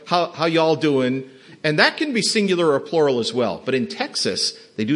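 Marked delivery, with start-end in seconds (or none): 0.1-1.3 Southern drawl. Shown as a demonstration. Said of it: "you know".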